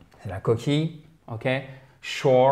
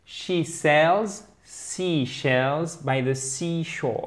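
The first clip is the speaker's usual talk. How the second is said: very slow, softer tongue-twister reading; drawn-out practice repetition, softly spoken; slow careful repeat; 5 dB quieter, much slower than usual. Shown as a demonstration. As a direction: take the tongue twister word by word, gently. Repeats the model tongue twister slowly.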